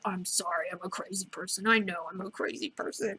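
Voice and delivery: soft, small-voiced mock apology; meek apology. Host voices Rorschach apologizing to his friend, meek apology. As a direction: drop the volume and own up sheepishly.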